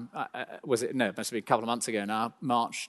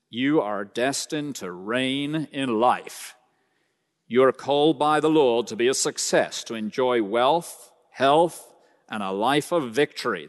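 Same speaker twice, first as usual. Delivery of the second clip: put-on American accent. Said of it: "That's my American accent".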